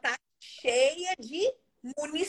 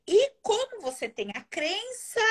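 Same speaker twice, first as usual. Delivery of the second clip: ordinary talk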